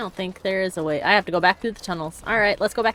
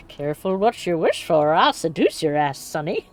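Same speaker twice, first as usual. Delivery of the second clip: put-on cheeky old lady voice; foul mouthed granny; 2 semitones lower than usual. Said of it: "whenever I do my old lady voice".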